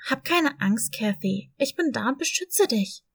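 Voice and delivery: a brave dog comforting the kitten; encouraging. Acted. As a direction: cheer her up firmly. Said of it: "munterte Boss sie auf".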